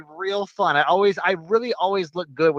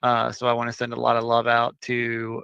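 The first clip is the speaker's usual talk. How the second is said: low, subdued, tired voice; sleepy; 5 semitones lower than usual. Real, not acted. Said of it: "Why you sound sleepy?".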